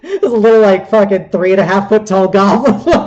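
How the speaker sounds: laughing while narrating, loud; barely holding it together; cracking up at the little goblin. Real, not acted. GM laughing through description.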